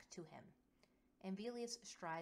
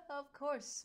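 cheerful; 10 semitones higher, 11 dB louder than usual. Acted. Laughing agreement.

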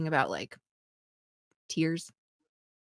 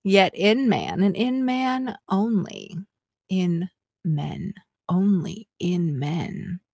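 sexy voice; slower than usual. Pretend. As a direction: read it like a slow seduction. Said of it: "in a sexy voice".

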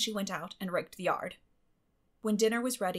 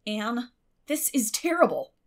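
forced calm; 3 semitones higher, 7 dB louder than usual. A narrator's reading. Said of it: "trying to speak calmly".

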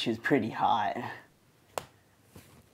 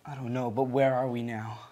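put-on standard American accent, plain delivery. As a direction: speak in a general American accent. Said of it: "Why are you speaking with an American accent?".

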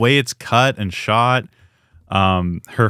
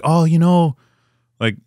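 over-the-top Southern barmaid; hammed-up, higher-pitched mock Southern voice; Sookie; 5 semitones higher, 4 dB louder than usual. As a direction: overplay a chirpy Southern character. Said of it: "just so over the top".

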